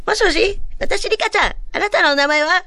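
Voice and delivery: very high, sing-out doll voice; Rika-chan. Acted. Doll greets a caller and asks their name, high doll impression. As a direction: pitch it up into a little doll's phone greeting. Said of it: "リカちゃんのモノマネをしていきたい".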